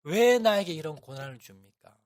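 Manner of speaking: a hint of sobbing despair as she pleads why me; tearful complaint. Mother in despair crying out to God, mildly tearful loud lament. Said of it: "펑펑 울면서".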